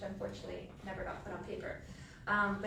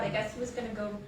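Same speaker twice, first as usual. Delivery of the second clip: louder, talking through laughter; laughing; 10 dB louder, faster than usual. Real, not acted. Recalling the confused attendant, laughing while talking. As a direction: let the laugh spill into the words. Cracking up at the memory.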